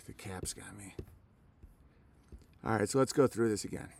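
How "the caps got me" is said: defeated whisper. Real, not acted. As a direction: breathe it out, beaten. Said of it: "sorry about swearing".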